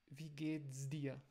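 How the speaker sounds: wie geht's dir? said slowly, s kept unvoiced; German phrase demo. Shown as a demonstration. Teacher models the phrase without voicing the s. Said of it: "usando uma Z".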